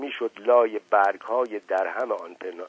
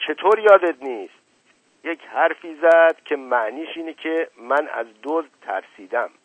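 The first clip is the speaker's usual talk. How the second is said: higher, louder indignant uncle; 6 semitones higher, 7 dB louder than usual. A narrator's reading. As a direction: demand it with offended pride. Uncle indignant he's called coward.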